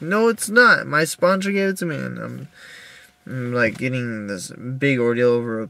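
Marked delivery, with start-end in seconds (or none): 0.0-2.0 high, louder indignant retort; retold protest. To the roommate about the sponsor's pin, indignant and high. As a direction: defend the gift, indignant. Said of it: "It's like".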